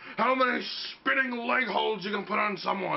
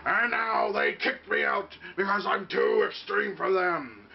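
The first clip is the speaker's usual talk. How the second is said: ordinary talk, nothing marked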